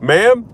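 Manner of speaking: "Ma'am?" sung high with a rising lilt; wife's demo of getting a patient's attention, "Ma'am?" rising high; sing-song ma'am. Shown as a demonstration. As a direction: call "Ma'am?" up high and bright, rising at the end. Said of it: "That's how she says it".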